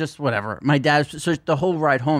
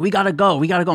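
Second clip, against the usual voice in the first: higher, insistent grandma quote; insistent nagging; 5 semitones higher, 3 dB louder, faster than usual. Retold or imitated. Grandma pestering dad at the party, insistent nagging. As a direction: nag to leave, pitched up.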